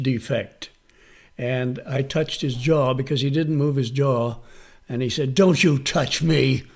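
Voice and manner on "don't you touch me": a touch of anger, slow and firm; angry warning. Retold or imitated. Workshop student warns teacher off his jaw, angry. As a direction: warn them off slowly and firmly. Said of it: "he was really angry".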